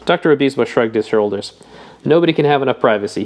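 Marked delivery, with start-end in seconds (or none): 2.0-3.2 firm, pressing each word; emphatic. Acted. Obispo defending privacy, said emphatically. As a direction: insist on it, leaning in. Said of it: "he said emphatically".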